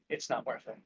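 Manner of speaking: soft, hushed aside to calm someone; low whisper. Acted. Hand on an angry friend's shoulder, quiet murmur. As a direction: lean in and say it quietly.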